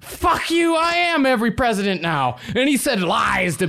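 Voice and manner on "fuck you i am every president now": high puppet voice, cocky; Pinocchio voice. Acted. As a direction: crow it like a tiny tyrant. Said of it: "and said".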